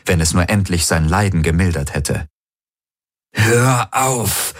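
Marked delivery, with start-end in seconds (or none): 3.3-4.5 high, sharp command; harsh order, raised pitch; snapped command. A narrator's reading. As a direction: bark it at the voice in his head. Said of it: "herrschte er die Helix an".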